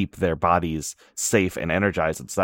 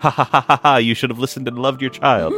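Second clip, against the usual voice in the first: loud taunting cackle at a fool; mocking laughter; 5 semitones higher, 4 dB louder than usual. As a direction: jeer and laugh at her. Everyone mocking Yachi's mom.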